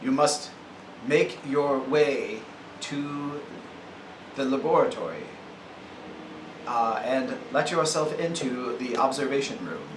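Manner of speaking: slow, even robotic monotone. Acted. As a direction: speak like a machine, word by word. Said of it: "I try to say it in a robotic voice".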